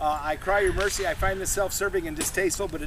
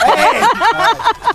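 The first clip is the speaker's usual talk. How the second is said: loud, high hail; crying out; 11 dB louder, much slower than usual. Shown as a demonstration. Performer crying out to people walking by, sharp loud call. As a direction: shout to catch a stranger's attention. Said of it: "cry out to the people walking by".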